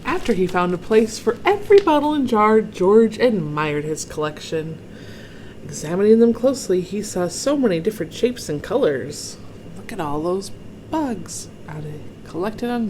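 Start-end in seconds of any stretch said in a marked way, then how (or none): 0.1-9.4 brisk, expressive storybook narration; story read-aloud. A narrator's reading. Reader shows children George's bug collection, brisk expressive storytelling. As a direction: read with admiration for young listeners. Reads picture book to children.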